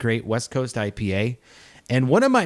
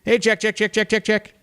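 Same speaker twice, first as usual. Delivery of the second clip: calling out; 9 semitones higher than usual. Real, not acted. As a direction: call the cat's name playfully. Calling the cat by name.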